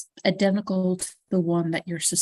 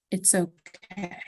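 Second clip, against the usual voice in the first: softer, slower, trailing off; the voice drifts away, fading softly; fading murmur; 6 dB quieter, slower than usual. Acted. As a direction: let it fade into nothing. Head voice repeats, fading away.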